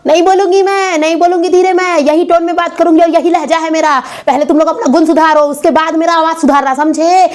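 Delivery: acted brash, combative scolding; mouthy, quarrelsome wife; loud defiance. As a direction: refuse loudly to tone it down. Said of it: "मैं इतना ही जोर से बोलूंगी".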